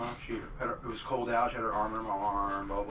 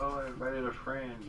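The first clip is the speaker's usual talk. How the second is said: slow, higher, lightly voiced grandpa; imitating grandpa; 4 semitones higher, slower than usual. Grandpa springing a surprise guest at dinner, lightly imitated, slow. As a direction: draw it out like a coy grandpa. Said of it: "And then he's like".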